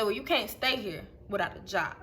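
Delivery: pissed but keeping the voice down; restrained anger. Retold or imitated. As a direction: lay it down quietly, no yelling. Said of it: "I'm not yelling at you".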